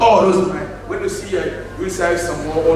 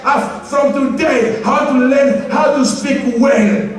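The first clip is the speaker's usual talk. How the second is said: slow, higher mocking voice; hammed-up imitation of churchgoers; mock preachy tone; mocking quote; 6 semitones higher, slower than usual. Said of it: "The Christian people say".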